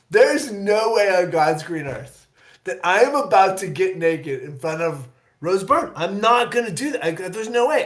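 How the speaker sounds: retold flat-out refusal, pitch rising; adamant refusal. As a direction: dig in and refuse, mock outraged. Retelling refusal to get naked.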